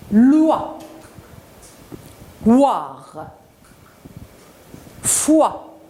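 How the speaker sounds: each syllable slow and separate, firm onset; model syllables. Shown as a demonstration. Teacher models syllables for children to repeat, slow and separate. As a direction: sound out single syllables for repetition. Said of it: "vous répétez après moi".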